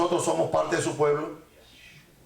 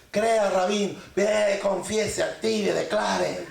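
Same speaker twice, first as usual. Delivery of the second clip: mock motivational preacher; slower than usual. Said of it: "que el rabino hable así".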